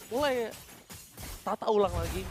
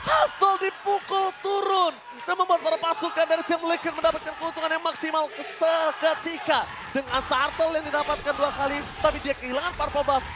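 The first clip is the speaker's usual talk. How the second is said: esports caster; 3 semitones higher than usual. Real, not acted. Caster after the kill.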